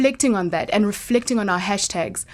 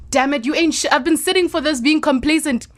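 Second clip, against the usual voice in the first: defiant self-talk; 5 semitones higher than usual. Pretend. Acting out a defiant inner voice.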